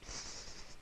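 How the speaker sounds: slightly stronger whispered psst; a hesitant breathy psst. A narrator's reading. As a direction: kitten trying a bit bolder. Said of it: "said a little louder".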